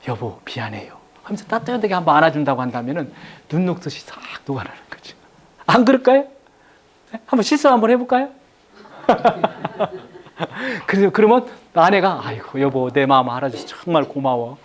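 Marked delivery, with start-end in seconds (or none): 0.1-0.9 soft, low, sincere sorry to his wife; tender apology. Shown as a demonstration. Husband's apology modeled softly. 12.2-14.6 grateful wife. Shown as a demonstration. Wife's grateful reply modeled.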